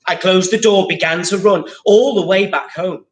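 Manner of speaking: lively picture-book read-aloud; story reading to children. Acted. Teacher reads the picture book to pupils, lively read-aloud. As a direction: read the rhyming story to the class.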